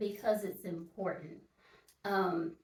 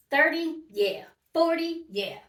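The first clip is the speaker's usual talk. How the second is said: excited questions; 6 semitones higher, 7 dB louder than usual. Real, not acted. Quizzing herself on ages.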